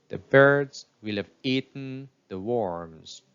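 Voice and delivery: BIRDS stressed, will have said quick and light; stress on birds, eaten, worms. Shown as a demonstration. Teacher modelling stress for students to repeat. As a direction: squeeze will have between the beats. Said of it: "repeat after each sentence".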